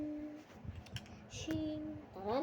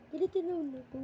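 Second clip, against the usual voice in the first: higher, louder pretend anger; mock angry; 6 semitones higher, 4 dB louder, faster than usual. Kid announcing he is angry again, mock angry. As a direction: huff it out like a playful tantrum.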